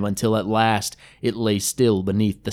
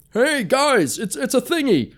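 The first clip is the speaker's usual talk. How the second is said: shrill call up to his friends, much higher; high panicked cry; 14 semitones higher than usual. Acted. Gel calling up the hill to his friends, panicked high cry. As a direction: yell for help, voice cracking high. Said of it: "Gel answered with his own cry".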